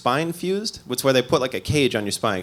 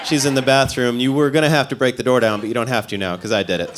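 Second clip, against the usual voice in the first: defensive. Retold or imitated. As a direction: snap back defensively at the paramedics. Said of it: "I got all defensive".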